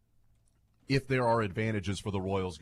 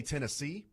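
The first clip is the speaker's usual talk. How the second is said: Tennessee with emphasis on the final SEE; last-syllable stress; 4 semitones higher, 4 dB quieter than usual. Shown as a demonstration. Host showing how we say it, last-syllable stress on Tennessee. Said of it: "the last syllable is where you have the emphasis".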